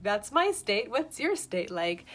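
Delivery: loud, mocking imitation; loud sarcastic mimicry of his question; mock retort.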